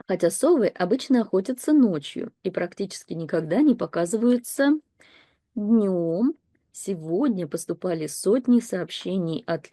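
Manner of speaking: steady newsreader style; read-aloud news text. Acted. Teacher reading the owl news story to learners, in a newsreader style. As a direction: read it like a broadcast bulletin.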